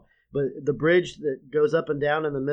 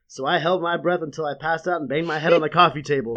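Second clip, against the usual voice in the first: laughing while quoting; 6 dB louder than usual. Retold or imitated.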